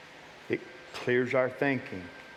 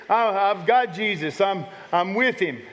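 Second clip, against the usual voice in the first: high, loud panicked rush of worry; a believer in a panic, voice up and straining; freaking out; 8 semitones higher, 5 dB louder than usual. Acted. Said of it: "Are you freaking out like the".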